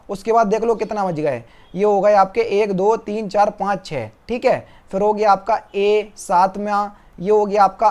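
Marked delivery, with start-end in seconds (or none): none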